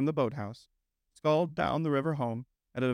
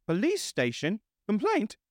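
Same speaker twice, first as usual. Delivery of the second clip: high, puzzled and far away; echoing the words as if half asleep; dreamy Toad; 9 semitones higher than usual. A narrator's reading. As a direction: Toad barely listening to the Rat, dreamily. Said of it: "murmured Toad dreamily".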